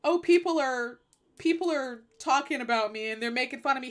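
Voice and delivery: mock crying complaint; hammed-up self-pitying whimper; Trump. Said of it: "when Trump was crying".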